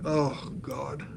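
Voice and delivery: whispered mock groan; soft, whispery cringe; retold dread. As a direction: breathe it out as if wanting to vanish. Retold wish the moment were over.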